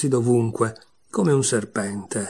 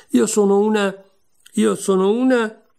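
flustered stammer; 8 semitones higher, 5 dB louder than usual. A narrator's reading. Alice stammers, unsure.

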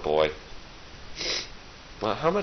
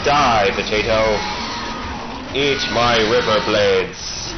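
villain taunt; slower than usual. Pretend. Taunting enemies while attacking.

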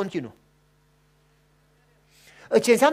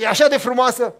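put-on excited child; 7 dB louder than usual.

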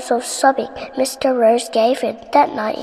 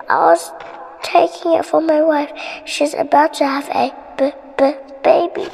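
higher, stammering frightened plea; scared stammering; 4 semitones higher than usual. Acted. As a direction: stammer it out in fear. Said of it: "he stammered".

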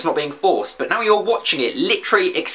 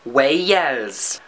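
mock Welsh accent, lower in pitch; 4 semitones lower than usual. Shown as a demonstration. Vlogger demonstrating accents by country name, Welsh accent. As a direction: put on a comic Welsh lilt. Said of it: "say in that accent is the name".

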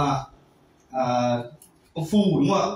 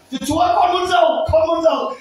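higher, louder cry to God; loud begging prayer; 5 semitones higher, 4 dB louder than usual. Acted. Preacher acting a believer crying out to God, loud pleading. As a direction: shout the plea for riches. Believer praying loudly for wealth.

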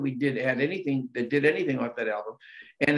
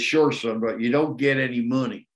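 put-on thick Southern accent; 2 semitones lower than usual. Quoting a singer's reply to the interviewer in a hint of Southern accent. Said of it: "Here's the thick one".

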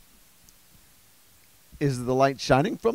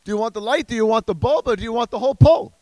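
higher, rising questions that build in urgency; exasperated questioning; 5 semitones higher, faster than usual. Acted. Comic interrogating the street light captcha, exasperated. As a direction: demand an answer, each question more worked up.

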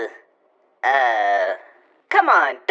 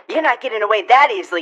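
ordinary talk

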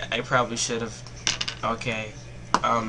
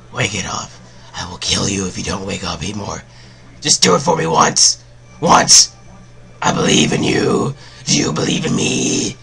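intense pleading; 6 semitones lower, 5 dB louder than usual. Real, not acted. Begging Heatmor to come through.

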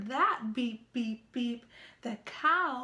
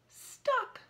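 dramatic stuck; 10 semitones higher than usual. A narrator's reading. Dump truck stuck in mud.

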